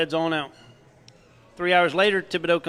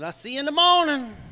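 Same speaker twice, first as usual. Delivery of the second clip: Thibodeau goodbye; 9 semitones higher than usual. Acted. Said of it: "He goes".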